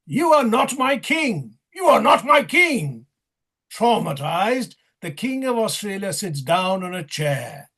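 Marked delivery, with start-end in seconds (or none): 0.1-3.1 higher, louder heckling shout. Acted. Narrator voices the Black Queen shouting at the king. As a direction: yell it at the king. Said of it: "The Black Queen shouts at the King of Australia".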